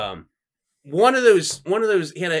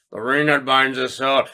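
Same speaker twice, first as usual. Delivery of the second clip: wizard voice, grave and steady; Gandalf voice; 2 semitones lower than usual. Retold or imitated. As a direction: intone like an old wizard. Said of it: "That was Gandalf pretty spot on".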